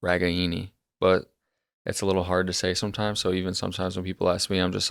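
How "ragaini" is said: "Ragaini" carefully, each vowel kept; correct pronunciation. Shown as a demonstration. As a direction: say every syllable of "Ragaini", unhurried. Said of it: "the correct way to pronounce it".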